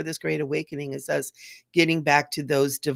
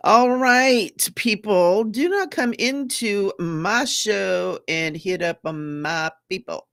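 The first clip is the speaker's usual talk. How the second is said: a stern warning to the chat; stern scolding; 3 semitones higher, 3 dB louder, slower than usual. Real, not acted. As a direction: firmly tell the viewers off, louder. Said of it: "That's rude".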